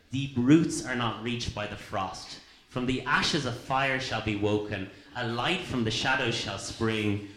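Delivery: reciting a poem to the congregation; poem reading. Acted. Reads Tolkien's poem aloud.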